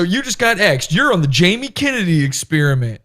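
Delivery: high, cheesy prank-show host; mock host reveal. Host revealing the prank to the victim, hammed-up high announcer voice. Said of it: "And then you go".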